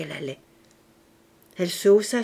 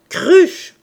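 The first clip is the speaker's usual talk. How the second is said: high, loud insult; yelling; 9 semitones higher, 12 dB louder than usual. A narrator's reading. Father insults his daughter, yelling. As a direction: yell it at her in exasperation. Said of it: "hurla le père".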